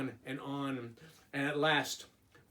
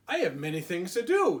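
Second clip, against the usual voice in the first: a lightly voiced Toad, a bit louder; 3 semitones higher, 6 dB louder than usual. Teacher reading to kids, lightly voiced Toad. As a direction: Toad announcing his busy day, a touch louder.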